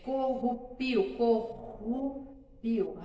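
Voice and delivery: corrupio drawn out slowly, strong guttural R; teacher modelling corrupio slowly; slow demo word. Shown as a demonstration. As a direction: spell out corrupio slowly with the rough R. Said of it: "quando a gente fala assim".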